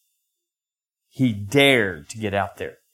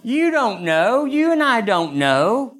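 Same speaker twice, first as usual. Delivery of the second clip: slow emphatic stress; 10 semitones higher, slower than usual. Real, not acted. Preacher stressing point.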